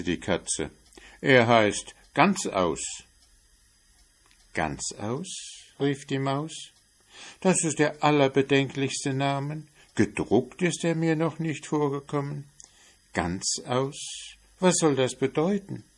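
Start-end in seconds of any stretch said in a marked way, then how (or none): 1.2-3.0 slow, higher, louder reveal; cat slowly reveals the name; drawn-out cat. Acted. Cat names third child. 4.5-15.8 higher, alarmed mouse voice; mouse, much higher and startled; shocked mouse. Acted.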